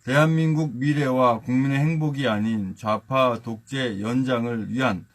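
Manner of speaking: reading a party statement aloud; formal statement reading. Real, not acted. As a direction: read it like an official speech. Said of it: "한번 낭독해 드리겠습니다".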